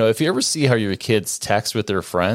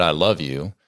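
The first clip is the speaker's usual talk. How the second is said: perfunctory; 4 semitones lower than usual. Retold or imitated. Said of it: "perfunctorily said".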